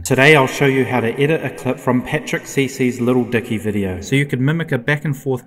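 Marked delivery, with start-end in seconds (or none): 0.0-4.0 stronger reverb layer; echoing voice for another commenter; studio reverb voice. Shown as a demonstration. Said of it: "the voice for a third comment or person".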